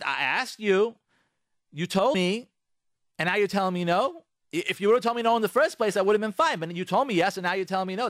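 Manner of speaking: mock upset husband pleading fairness; betrayed husband. Husband accusing wife of going back on her word, mildly hammed.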